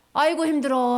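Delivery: exhausted worker groaning; tired groan demo. Shown as a demonstration. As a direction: show the kids the worn-out face and sigh. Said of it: "한번 해보자".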